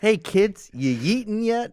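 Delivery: high, bright try-hard mom; cool mom voice. Pretend. Cohost mocking a cool mom talking to teens, high. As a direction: pitch it up like a mom trying too hard. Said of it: "a mother trying to sound cool".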